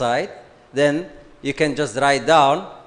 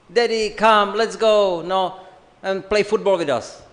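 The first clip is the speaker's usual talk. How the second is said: put-on higher, eager kid voice begging daddy; pleading child; 5 semitones higher than usual. Kids begging their tired father to play football, eagerly. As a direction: tug at daddy to come play.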